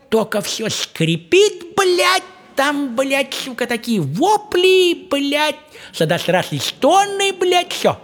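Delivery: выше и медленно, смакуя каждое слово; растягивает, изображая стоны; восторженно, нараспев. Real, not acted. Описывает ночные вопли. (смакуя, нараспев о ночных воплях)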